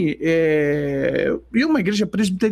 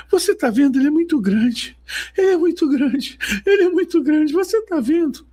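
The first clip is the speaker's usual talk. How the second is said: much higher, rising frantic plea; imitating a crying woman; 11 semitones higher than usual. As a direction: cry out in awe, climbing higher. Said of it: "ela vem chorando".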